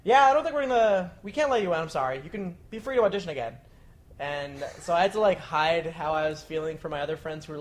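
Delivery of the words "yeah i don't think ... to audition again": higher, louder apologetic rejection; mock the gatekeeper letting you down; Craig impression. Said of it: "he was like".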